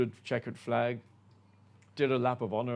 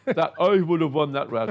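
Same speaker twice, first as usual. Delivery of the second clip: a hint of a French accent, ranting; mock French complaint, lightly done; bad French accent; 5 semitones higher, 8 dB louder than usual. Imitating René Arnoux's rant, light French accent. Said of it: "I can't do a French accent".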